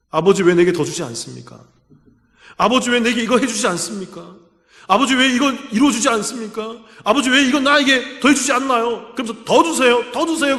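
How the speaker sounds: mock whimpering demand; whiny plea. Preacher mimicking Esau begging his father, mock whiny plea. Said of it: "그러면서 울고 앉아 있는 거죠".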